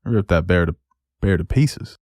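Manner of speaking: light put-on Southern accent. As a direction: slip playfully into a Southern accent. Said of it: "talking with a southern accent".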